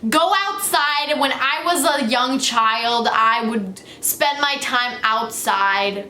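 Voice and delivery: mock parent scolding a kid about the phone; lecturing parent. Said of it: "they'll be like".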